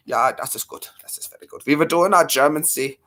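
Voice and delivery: light mock German accent; casually put-on German accent. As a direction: slip into playful German. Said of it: "We were doing our German accent".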